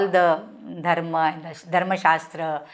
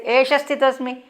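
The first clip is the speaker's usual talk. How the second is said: higher, defiant and curt Esha sthitosmi; rude reply; 5 semitones higher than usual. Acted. Ghatotkacha answering Bhima, rude defiant reply. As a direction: snap back Esha sthitosmi with contempt. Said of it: "Very rudely he will say".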